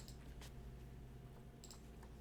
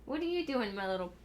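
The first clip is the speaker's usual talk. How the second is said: fond scolding. Real, not acted. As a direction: tease the cat lovingly. Talking to the cat.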